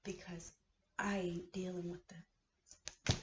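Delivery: whispered slowly, spent; drained whisper; worn-out whisper. Real, not acted. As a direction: breathe it out with nothing left. Exhausted after the rant.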